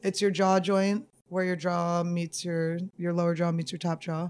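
speaking around a mouth guard; words shaped around a mouthguard; wearing a mouthguard. Real, not acted. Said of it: "why is this mouth guard in".

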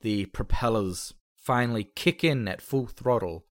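slow, measured story narration; game master's scene setting. Acted. Game master narrates the plane taking off, slow and measured. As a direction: draw out the take-off for suspense.

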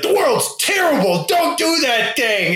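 mock preachy complaint. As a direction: lightly play the doom-sayer. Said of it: "when you're just like".

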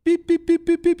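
high, loud imitated computer beeps. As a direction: chirp out beep beep like a computer screen. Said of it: "That's the sound computer screens make".

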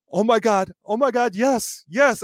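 mock-agonized yes, yes; pained yelp. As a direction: cry out like it still hurts. Retelling pain after catheter removal.

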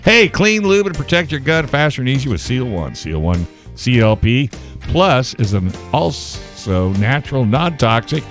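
bright live ad read; chipper 1950s ad. Acted. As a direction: sell it like an old ad. Ad read, earlier reader guess.

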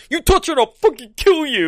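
high, loud hammed-up threat; hammed-up Cyclops threat; mock threat. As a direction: bark it like a tough guy. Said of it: "Cyclops is like".

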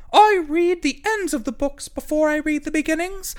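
very high, loud squeak; the hedgehog joins in, very high and loud; squeaky hedgehog. A narrator's reading. Hedgehog confesses.

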